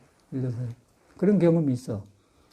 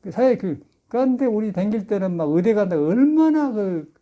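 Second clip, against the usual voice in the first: ordinary delivery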